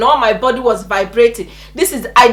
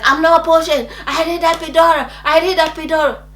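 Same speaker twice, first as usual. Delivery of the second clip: raised, whining refusal; mild mock scream; 5 semitones higher than usual. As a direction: lightly act out a pained protest. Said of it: "still screaming that I needed".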